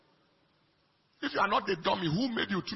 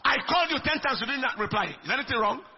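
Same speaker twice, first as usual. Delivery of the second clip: mock accusing friend; 3 semitones higher, faster than usual. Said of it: "accusation from".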